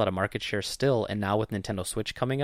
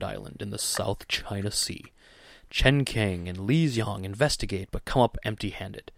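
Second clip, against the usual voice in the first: movie-trailer narrator reading a synopsis. Pretend. Podcast host reading a film synopsis to his co-host, movie voice. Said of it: "your movie voice".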